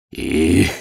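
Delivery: протяжный вздох «эх»; вздохни с досадой; вздох медвежонка. A narrator's reading. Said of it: "вздохнул медвежонок". (вздох огорчённого медвежонка)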